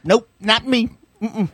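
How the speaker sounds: mock redneck voice. Mocking a rock singer's fan.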